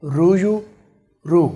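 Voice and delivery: How रू यू रू with the d turned to an American r; American accent, d flapped into r in How रू यू रू; light American English, रू for do. Shown as a demonstration. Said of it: "American language में बोल रहे हैं".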